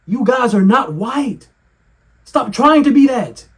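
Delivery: slow, high, mocking scold. Telling Asians to stop trying to be white, slow mocking scold. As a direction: talk down to them slowly.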